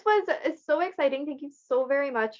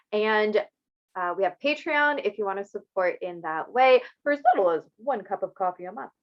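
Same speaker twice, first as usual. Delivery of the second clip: infomercial voice. Pretend. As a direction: pitch it like a late-night ad. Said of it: "my little infomercial voice there".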